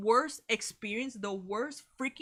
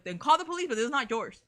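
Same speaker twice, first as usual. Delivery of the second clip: loud and strong, firm; dad's loud reply; 3 semitones higher, 3 dB louder, faster than usual. Retold or imitated. Dad telling the stranger off, loud and firm. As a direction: stand your ground loudly. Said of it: "my dad has a very loud and strong voice".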